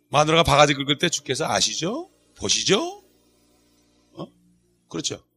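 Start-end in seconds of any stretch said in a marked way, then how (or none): 1.1-3.0 soft appeal with rising endings; model prayer. Shown as a demonstration. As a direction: quietly plead to the Lord, lifting each question. Models a wife-nagged husband's prayer. (조용히 하소연하는 기도)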